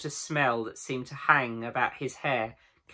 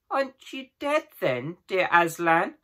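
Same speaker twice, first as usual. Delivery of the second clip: high hopeful question; amazed; 5 semitones higher than usual. A narrator's reading. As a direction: wonder and hope.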